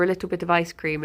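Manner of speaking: low, quick South African lilt; South African accent. Shown as a demonstration. Line to get into a South African accent, lightly imitated. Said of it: "into a South African accent".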